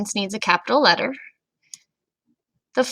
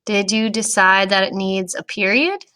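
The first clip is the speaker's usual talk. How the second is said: whisper. Real, not acted. Teacher checks answer softly.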